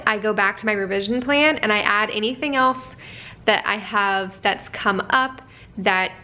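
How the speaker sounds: normal talking voice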